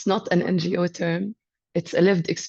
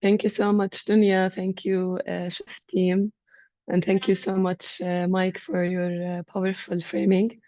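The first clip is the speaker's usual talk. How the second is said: hoarse from a cold; sick voice. Real, not acted. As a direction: speak through a sore throat. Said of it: "this is my sick voice".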